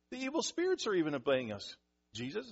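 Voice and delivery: amazed report, starting high; blown away. Retold or imitated. Disciples telling Jesus the spirits obey, amazed. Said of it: "They were, like, blown away".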